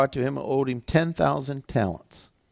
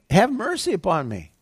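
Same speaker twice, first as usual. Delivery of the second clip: lightly acted higher-pitched plea; pleading; 5 semitones higher than usual. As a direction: beg for mercy, mildly dramatized. Servant begging master for mercy.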